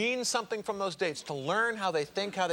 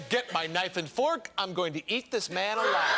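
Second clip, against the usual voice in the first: mock-hungry quote; 3 semitones lower than usual. Host reads a lady's racy comment to the crowd, mock-hungry. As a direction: spell out the craving for comic effect.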